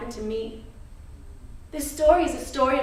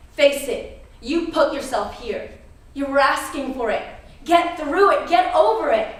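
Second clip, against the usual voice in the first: stern, forceful self-reproach, rising in pitch and volume; building self-blame; harsh self-scolding. Retold or imitated. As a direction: scold yourself, pushing harder with each command. Scolding herself inside the story.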